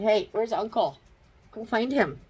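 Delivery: bright dog-directed call; pet-talk call. Real, not acted. Urging the dog.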